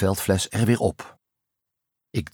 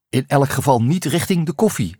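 higher, louder joke called back; calling back; 7 semitones higher, 4 dB louder than usual. A narrator's reading. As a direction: call it back to the leader as a joke. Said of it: "riep ik terug". (luid en hoog teruggeroepen grapje)

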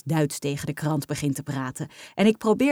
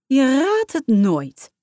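opgewonden moeder; 7 semitones higher, 5 dB louder, much slower than usual. A narrator's reading. Moeder vertelt vader opgewonden.

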